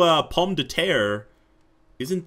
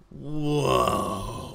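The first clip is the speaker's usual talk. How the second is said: usual speaking voice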